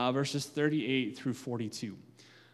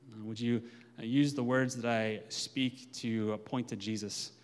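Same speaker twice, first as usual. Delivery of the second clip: prayer; 3 semitones lower than usual. Acted. Leads a prayer.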